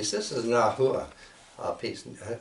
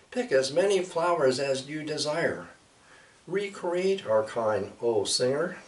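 higher, lightly voiced bird spirits; spirit voices; 5 semitones higher than usual. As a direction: lift the voice to speak as the birds. Flowers' keepers address the singer.

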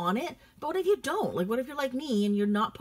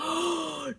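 sharp, high intake of breath; shocked gasp; 9 semitones higher than usual. Real, not acted. Shopper spotting bad news on a loved bag, shocked gasp. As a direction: gasp in sudden dismay. Sudden shock at what she sees.

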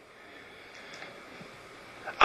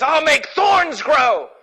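thundering God; 9 semitones higher, 3 dB louder, slower than usual. Acted. God's voice quoted in sermon.

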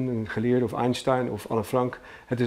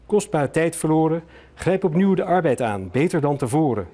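raised, projected auctioneer's reading; auction announcement; 4 semitones higher, 5 dB louder than usual. Acted. Auctioneer presenting the much-discussed poem to bidders, formal announcement. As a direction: announce it clearly to the room.

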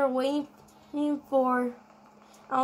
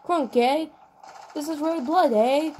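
light, badly faked Australian; bad Australian accent. Gamer trying out foreign acting mid-game, bad Australian accent. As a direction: have a poor go at an Australian accent. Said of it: "I should never try Australian".

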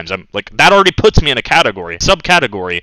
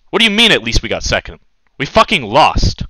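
indignant disbelief. Real, not acted. Outraged retort at teammate.

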